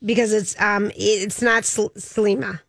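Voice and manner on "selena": Selena said with M for N, "se-LEE-ma"; mispronounced name. Real, not acted. Co-host fumbling a celebrity's name, Selena said as "Selima". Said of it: "Do you like her new name?".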